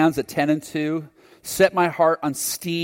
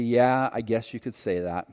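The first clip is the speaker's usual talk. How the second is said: sarcastic; 3 semitones lower than usual. Retold or imitated. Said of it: "I replied sarcastically".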